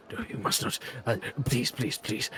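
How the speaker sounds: urgent near-whisper begging; breathy frantic please; hushed pleading. Acted. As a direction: plead under your breath.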